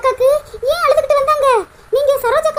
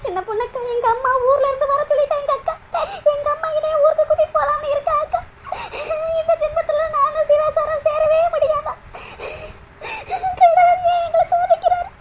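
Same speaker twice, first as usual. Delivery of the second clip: crying. Acted. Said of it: "அழுகாத பிரியா".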